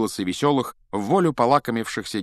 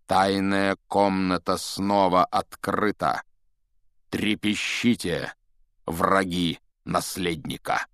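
ominous reading; slower than usual. Acted. Ominous writing on wall.

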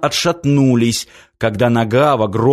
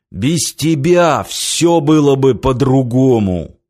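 angry. Acted. Giant blames the girl.

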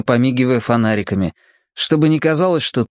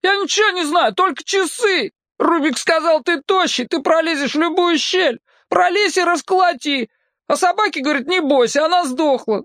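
put-on high, frantic boy's babble; panicked boy. A narrator's reading. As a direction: blurt it out in terror, high. Captive boy panicked confession.

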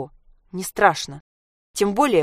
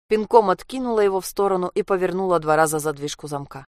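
ordinary delivery

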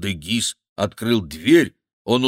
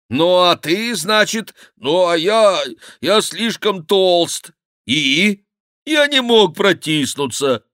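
wailing monk bewailing his fatness; crying out; 7 semitones higher, 5 dB louder than usual. Acted. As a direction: curse his own belly in despair. Monk explaining he's too fat.

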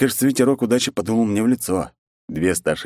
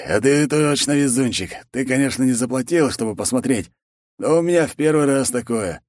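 lightly voiced, higher and cheerful; gloating opponent; 6 semitones higher than usual. Zaruba chats with the hero about luck, lightly voiced, higher. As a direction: brag a little, friendly.

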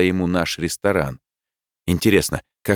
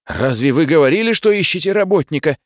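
high-pitched, raised protest; indignant yell; 9 semitones higher, 4 dB louder than usual. A narrator's reading. Boy confronts his boss over hiring a worker, yelling. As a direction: challenge him loudly, pitch climbing. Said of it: "снова заорал я".

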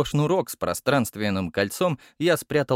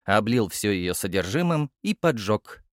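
ordinary delivery

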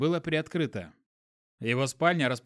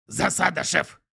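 louder, panicked alarm; urgent panting report; 2 semitones higher, 4 dB louder than usual. A narrator's reading. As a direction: shout the alarm in a rush. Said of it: "закричал он".

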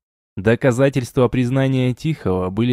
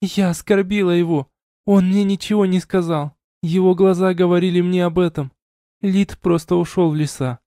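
lightly voiced woman, higher and subdued; raised voice, muted confession; confessing young woman; 7 semitones higher than usual. A narrator's reading. Elina confessing.

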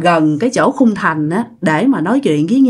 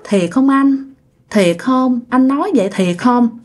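put-on shy girlfriend; 2 semitones higher than usual. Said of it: "bẽn lẽn trả lời kiểu mắc cỡ".

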